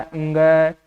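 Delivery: अंग said as a nasal ng plus a; correct letter pronunciation. Shown as a demonstration. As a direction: sound out अंग as one nasal letter name. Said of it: "हम शुद्ध उच्चारण सीखते हैं". (अंग का शुद्ध नासिक्य उच्चारण)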